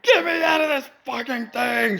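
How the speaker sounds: high mock patient through laughter; laughing while imitating the patient; laughing mock quote. Mock patient quote, cracking up, high. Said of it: "she just busted out of that".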